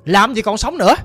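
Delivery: a mother loudly disowning her grandchild before the household; harsh shouting. Retold or imitated. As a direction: bark the orders like a tyrant matriarch. Mother shouting orders about the baby.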